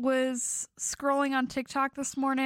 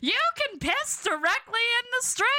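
put-on old-timey vendor; 6 semitones higher, faster than usual. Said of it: "old-timey vendor bit".

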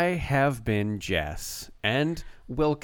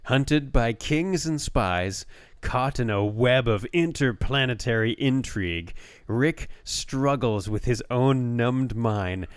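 best reading voice. Shown as a demonstration. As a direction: draw out the dramatic phrases. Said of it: "I'll read it in my best, uh, voice".

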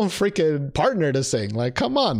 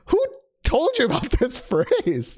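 incredulous; 10 semitones higher than usual. Retold or imitated. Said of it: "And I'm like".

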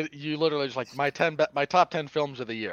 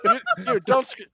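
squeaky outburst; 4 dB louder than usual. Real, not acted. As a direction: voice jumps way up in disbelief.

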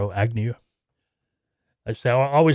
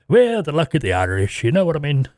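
hammed-up Irish lilt, pitched higher; terrible Irish accent; 4 semitones higher than usual. Podcast host jokes to listeners about Saint Patty's Day, terrible Irish accent. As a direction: put on a bad, joking Irish accent. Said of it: "my terrible Irish accent".

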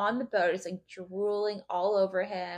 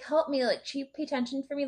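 higher, lightly whiny mock plea; mock pleading; 5 semitones higher, 4 dB quieter than usual. Podcaster imitates crewmate luring a man over, mock pleading. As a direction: beg for attention, hammed-up. Retelling crewmate begging for attention.

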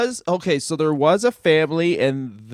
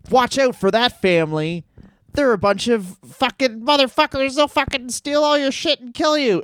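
mock alarmed warning; 9 semitones higher than usual. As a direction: pitch climbing into exaggerated panic. Acted warning about a dangerous family.

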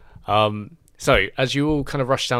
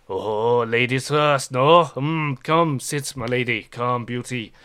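lightly voiced French charmer; Pierre flirting; 4 dB louder, slower than usual. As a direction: court the lady with mock gallantry. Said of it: "and he's like".

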